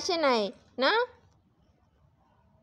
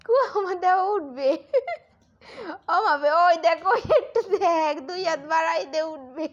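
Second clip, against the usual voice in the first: laughing through tears; 3 semitones higher than usual. Real, not acted. Mother coaxing baby, laughing tearfully.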